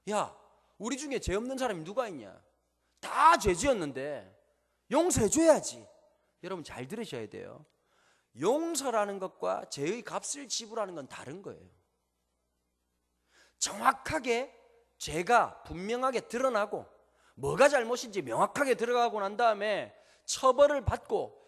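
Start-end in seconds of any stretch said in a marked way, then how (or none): 0.1-5.9 mocking quote. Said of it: "뭐라고 말하느냐?". 13.6-16.9 slow, weighty, louder words; slow emphasis. Real, not acted. Preacher stresses key point.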